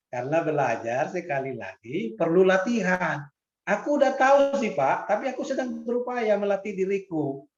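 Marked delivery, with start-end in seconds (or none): 3.6-7.4 mock student answer. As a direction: voice the student pleading for patience. Student quote defending self.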